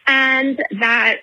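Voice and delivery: winded from walking, words between breaths. Real, not acted. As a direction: talk while short of breath on a walk. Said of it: "Sorry, I'm walking, so I'm, like, out of breath".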